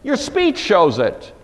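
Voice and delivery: high, loud accusation; accusing bystanders. Acted. Those who stood by confront Peter, loudly accusing. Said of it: "those who stood by said to Peter again".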